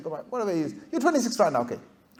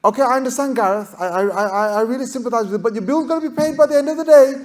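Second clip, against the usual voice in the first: lightly voiced polished receptionist, a little higher; smooth, trained phone manner, soothing but firm; a hint of a call-centre script voice; professional receptionist; 5 semitones higher, faster than usual. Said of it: "trained as a receptionist on this telephone company to say".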